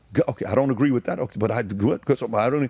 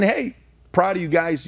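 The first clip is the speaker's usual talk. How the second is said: voice from above; 9 semitones higher than usual. Retold or imitated. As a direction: speak down proudly like the elders above. Ancestors praising from above.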